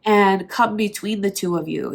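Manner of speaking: blocked nose from allergies; congested, stuffed-up voice; stuffy nose. Real, not acted. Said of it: "sorry if I sound really stuffy".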